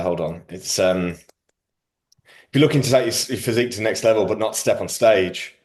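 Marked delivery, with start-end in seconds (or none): 1.1-5.5 mocking a mate's reel pitch; quoting Luke's promo. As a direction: pitch it like a coach's ad. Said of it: "what Luke's saying".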